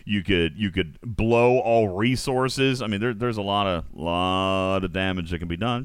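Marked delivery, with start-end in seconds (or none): none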